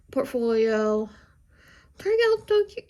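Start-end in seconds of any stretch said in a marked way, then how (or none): 2.0-2.9 high, delighted squeal; excited squeal. Real, not acted. Artist gushing to viewers about her inking, excited squeal. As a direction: gush over the drawing.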